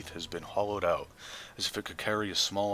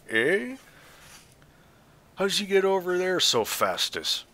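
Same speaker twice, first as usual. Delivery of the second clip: put-on much higher, louder confused old woman; crone puzzled; 11 semitones higher, 7 dB louder than usual. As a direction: squint and wonder aloud like a half-deaf hag. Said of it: "she mumbles to herself".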